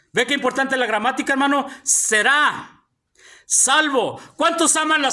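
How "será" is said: "Será" with the final A stressed. Shown as a demonstration. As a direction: lean on the last syllable of "Será". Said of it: "también tiene un acento". ("Será" con acento en la A final)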